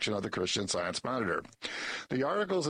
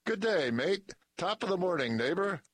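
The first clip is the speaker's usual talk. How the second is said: hammed-up Aussie and Irish greeting, higher; a cheeky put-on foreign accent, pitched up; mock foreign accent; 7 semitones higher than usual. Narrator greeting the silent neighbor in a mock foreign accent. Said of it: "I tried a foreign accent".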